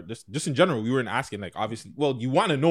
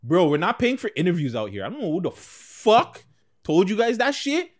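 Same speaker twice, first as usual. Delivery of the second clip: loud, slow, angry rant; aggressive; 8 semitones higher, 6 dB louder, slower than usual. Real, not acted. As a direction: really lay into them. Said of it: "I had to get a little aggressive".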